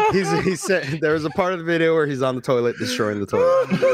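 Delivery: trying to explain while still laughing. Real, not acted. Recapping a clip amid group laughter.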